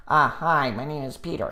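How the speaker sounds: mock American introduction, said through the nose; hammy, really nasal American accent; nasally American accent. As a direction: imitate a trainee actor's nasal American accent. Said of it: "It was, like, really nasally".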